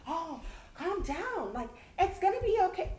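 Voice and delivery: mildly mocking coworkers telling mom to calm down; mock condescension. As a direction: talk down to her like she's overreacting. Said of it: "but they think".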